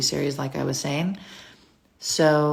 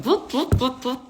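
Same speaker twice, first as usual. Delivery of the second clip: whooping; 9 semitones higher than usual. Retold or imitated. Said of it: "I keep going".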